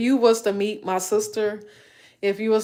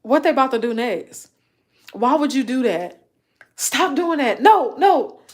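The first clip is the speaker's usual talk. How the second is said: excited movie watcher; 4 semitones higher, 3 dB louder than usual. Retold or imitated. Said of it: "I'm gonna be like".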